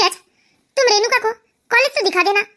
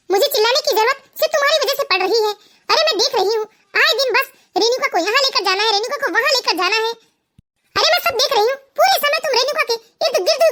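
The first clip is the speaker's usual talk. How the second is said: raised, higher-pitched jealous outburst; angry accusation; 3 semitones higher than usual. Acted. Wife accusing husband of chasing Renuka, angry. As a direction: throw it at him, hurt and furious.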